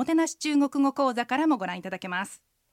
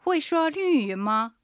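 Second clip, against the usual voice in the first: slow, higher model reading; pronunciation practice; 4 semitones higher, slower than usual. Shown as a demonstration. Host practises today's sentence with listeners, slow and careful. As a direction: draw out each syllable for learners to repeat. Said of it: "発音と合わせて練習してみましょ".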